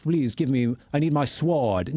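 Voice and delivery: hammed-up snooty British accent; mock snooty British. Host mocking snooty people in period films, mock snooty British. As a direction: imitate a haughty British stage actor, drawing out the words. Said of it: "these snooty people that are like".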